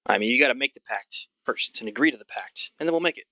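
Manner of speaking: put-on gruff old goblin. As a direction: put on a hint of a crusty old goblin ticket seller. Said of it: "Sort of this gruff old goblin".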